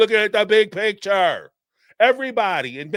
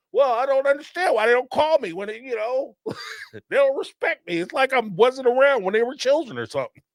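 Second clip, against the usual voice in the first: whiny absent parent; 7 semitones higher than usual. Retold or imitated. Voicing a neglected parent.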